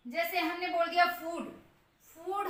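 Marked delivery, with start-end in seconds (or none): 2.0-2.5 फूड with a long ऊ; long vowel. Shown as a demonstration. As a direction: hold the ऊ sound long in फूड. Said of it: "long ऊ pronounce करें".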